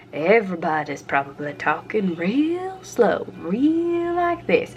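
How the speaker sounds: hammed-up Southern drawl, very slow and high; exaggerated slow Southern accent. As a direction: stretch the vowels like a slow Mississippi talker. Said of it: "everyone does not have an accent".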